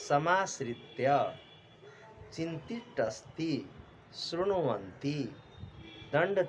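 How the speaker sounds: careful word-by-word Sanskrit reading; pronunciation model. Shown as a demonstration. Teacher models Sanskrit words for pupils to pronounce, careful and deliberate. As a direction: pronounce each word separately, drawing out the syllables. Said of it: "उच्चारण करना है".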